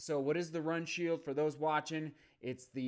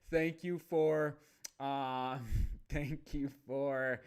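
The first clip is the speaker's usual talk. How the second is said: slow thanks broken by a real laugh; much slower than usual. Real, not acted. Host thanking a commenter on livestream, laughing. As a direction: laugh through the thank-you, stalling slightly. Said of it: "I'm laughing because".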